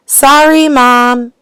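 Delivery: put-on high, loud girl's call; yelled. A narrator's reading. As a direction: call out the apology loudly. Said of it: "yelled Laura".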